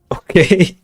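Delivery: loud, high surprised okay; startled okay. Real, not acted. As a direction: react in disbelief. Reacting to unexpected score.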